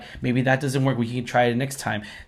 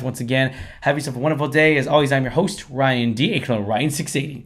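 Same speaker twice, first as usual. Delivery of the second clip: hoarse voice; 4 dB louder than usual. Real, not acted. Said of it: "As you can tell, I lost my voice".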